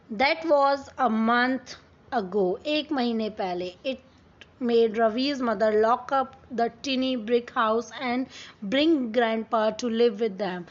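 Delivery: slow, careful read-aloud of the English text; story reading. Acted. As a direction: read each word out slowly for the class. (धीमी आवाज़ में कहानी पढ़ना)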